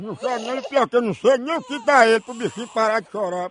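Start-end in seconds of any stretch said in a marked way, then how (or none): 0.0-0.6 soft, hushed soothing aside; quietly calm a crying baby mid-sentence; hushing a baby. Pretend. Caller soothes the pretend crying baby, soft hush.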